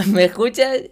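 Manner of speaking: high, loud call into the mic; delayed reporter. Retold or imitated. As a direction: shout down a bad satellite link. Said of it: "Porque dicen".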